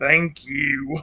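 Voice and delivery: put-on little creature voice, soft and grumbly. Voicing his soft grumble that sounds like thanks, in a soft grumbling put-on voice. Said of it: "I don't know why I tried doing it in a voice".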